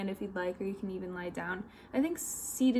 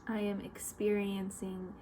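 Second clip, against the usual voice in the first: guided meditation; 5 dB quieter than usual. Real, not acted. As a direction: lead them gently, with long pauses between instructions.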